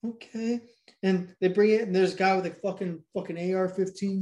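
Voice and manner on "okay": put-on higher-pitched meek kid reply; lightly voiced child, pitched up; little kid. Retold little kid answering the kidnapper, higher child voice. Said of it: "And the little kid's like".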